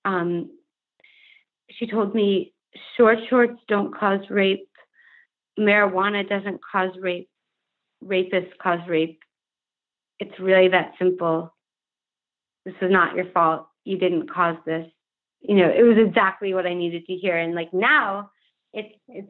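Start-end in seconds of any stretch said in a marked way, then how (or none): 2.9-14.9 slowed down, each sentence set apart by a pause; measured retelling of someone's reassurance, unhurried; slower, deliberate. Real, not acted. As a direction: say it slower so each statement lands. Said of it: "but I'll say it slower".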